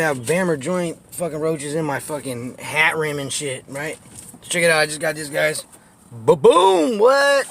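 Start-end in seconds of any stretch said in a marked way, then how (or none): 6.1-7.5 high, loud hype over the hat; excited reveal. Real, not acted. Showing the new hat to viewers, excited and loud. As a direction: show it off, pitched up.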